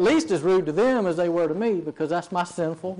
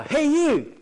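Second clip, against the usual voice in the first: very high, shrilly call; piercing, bossy witch impression; Wicked Witch of the West; 10 semitones higher, 4 dB louder than usual. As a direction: imitate a rude old lady demanding attention, witch-like. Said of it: "kind of wicked witch of the west, shrilly voice".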